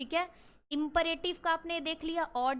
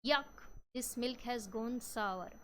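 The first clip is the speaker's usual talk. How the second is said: disgusted; much slower than usual. Shown as a demonstration. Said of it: "आप इसमें disgust कह सकते हो".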